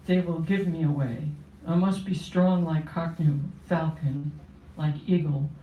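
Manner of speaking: measured, steady poetry reading voice; poem reading. Acted. Poet reading her poem to the audience, solemn and steady.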